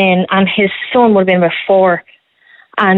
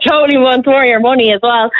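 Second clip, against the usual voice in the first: "Totally wants more of your money" said higher through real laughter; laughing; 6 semitones higher than usual. Real, not acted. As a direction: laugh as you repeat the joke. Repeats punchline while laughing.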